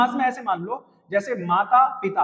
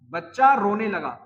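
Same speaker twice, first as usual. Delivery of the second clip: बच्चा रोने लगा said slowly and evenly, word by word; slow dictation; 2 semitones lower than usual. Shown as a demonstration. Teacher repeating the sentence for students to copy, slowly. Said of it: "teacher repeats slower for dictation".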